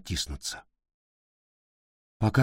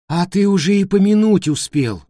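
high, loud scolding outburst; angry reproach; 10 semitones higher, 7 dB louder than usual. A narrator's reading. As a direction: snap at him in reproach. Wife scolds husband drinking.

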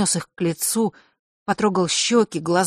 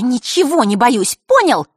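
put-on higher, louder defiant girl's voice; higher girlish challenge; hissed defiance; 7 semitones higher, 7 dB louder than usual. A narrator's reading. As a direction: spit it back at him. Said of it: "процедила она".

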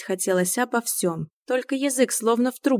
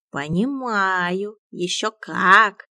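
sighing; 3 dB louder, much slower than usual. Acted. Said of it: "Мион вздохнул".

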